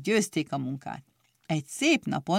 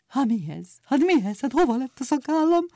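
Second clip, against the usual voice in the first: higher dismayed outcry; desperate cry; 7 semitones higher, faster than usual. A narrator's reading. Bird warden missing his beard, crying out higher. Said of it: "kétségbeesett kiáltás".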